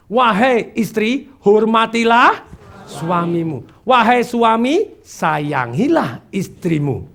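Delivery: slow, drawn-out scriptural admonition; solemn exhortation. Acted. Teaching spouses their duty from scripture, solemn exhortation. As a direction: proclaim it slowly, line by line.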